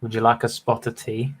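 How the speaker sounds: light mock British accent, posh-tea-shop invite; offering tea to the audience in a mock British accent; put-on British accent. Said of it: "You got the British accent".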